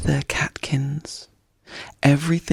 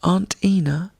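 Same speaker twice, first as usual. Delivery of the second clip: despondent; 5 semitones higher than usual. Acted. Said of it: "Bambi asked despondently".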